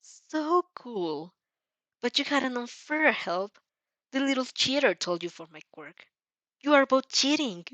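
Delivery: sneering, with a smirk you can hear; smirking taunt. Acted. Villain accusing the hero of cheating, smirking. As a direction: needle him with a smirk. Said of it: "lips twist in a nightmarish smirk".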